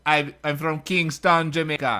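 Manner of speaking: put-on slow, half-hearted Jamaican accent; mock Jamaican accent. Friend tries a Jamaican accent, not great. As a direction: drag it out in a weak Jamaican lilt. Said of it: "That's my Jamaican accent".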